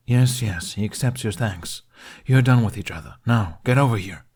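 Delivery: impatient demand. Acted. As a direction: hurry him along, irritated. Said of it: "Toothless demanded impatiently".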